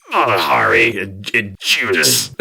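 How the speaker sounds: slow, low muttering. Retold or imitated. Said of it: "he's muttering".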